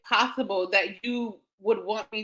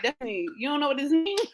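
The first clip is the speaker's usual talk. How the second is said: laughing nurse imitation; 4 semitones higher, faster than usual. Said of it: "she's looking at me like".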